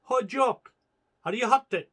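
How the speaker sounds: high, loud call to a comrade. Acted. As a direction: call out across the dark. Calling to comrade after blast.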